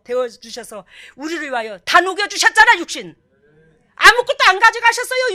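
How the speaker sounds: impassioned proclamation with loud high peaks; full-force preaching. Real, not acted. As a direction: drive it home with bursts of force. (열정적으로 외치는 설교)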